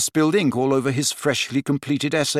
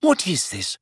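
shocked; 6 semitones higher than usual. Acted. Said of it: "still looking shocked".

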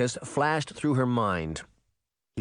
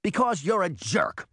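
high, heated jab; exasperated cry; 9 semitones higher than usual. A narrator's reading. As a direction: fling the insult out, pitched high. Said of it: "Sabrina cried".

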